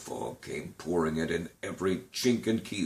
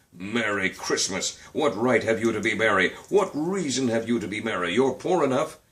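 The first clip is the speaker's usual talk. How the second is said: scornful scolding; 2 semitones higher than usual. Acted. Scrooge scolds his nephew.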